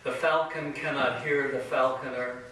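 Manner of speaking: measured poetry reading with weighty pauses; poem recitation. Acted. Poet reciting verse to an audience, measured poem recitation. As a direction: recite it solemnly, phrase by phrase, letting line ends hang.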